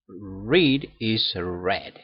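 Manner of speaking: "read is read" with the second read as "red"; slow "read is read", second one rhymes with bed; past tense read. Shown as a demonstration. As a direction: say "read" then "red", drawn out. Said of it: "you pronounce it different".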